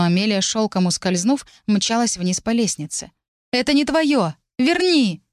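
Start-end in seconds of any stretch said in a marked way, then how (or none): 3.5-5.2 higher desperate demand; pleading shout. Acted. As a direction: demand it back, upset. Mary demanding the locket back.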